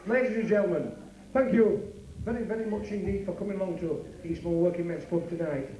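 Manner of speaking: a lightly voiced stage announcer wrapping up the night; club compère sign-off. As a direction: thank the crowd like a working men's club host.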